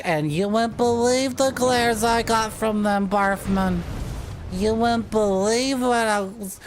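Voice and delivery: high, hammed-up Southern country girl; super southern accent. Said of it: "until we get super southern accents".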